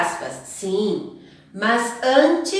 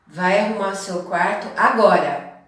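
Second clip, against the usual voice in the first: a command; 3 dB louder than usual. Shown as a demonstration. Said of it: "Pode indicar uma ordem".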